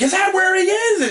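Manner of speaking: high mock doctor voice; voicing the doctor. Host voicing the doctor in the movie, high mock voice. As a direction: play the doctor, high and urgent. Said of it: "And he's like".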